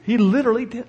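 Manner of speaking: high, amused and chuckling as he tells it; laughing in disbelief. Real, not acted. Pastor laughing as he tells of his son's crumb. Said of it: "I was just dumbfounded".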